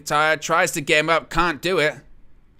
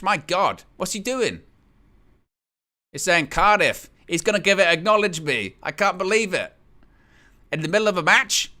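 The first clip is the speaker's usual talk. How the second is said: raised-pitch, astonished play-by-play; incredulous commentary; 4 semitones higher than usual. Real, not acted. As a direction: react in disbelief as it unfolds. Astonished that wrestler takes microphone.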